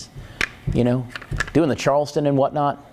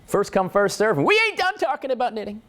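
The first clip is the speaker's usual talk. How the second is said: mock snooty lady; 8 semitones higher than usual. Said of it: "I go".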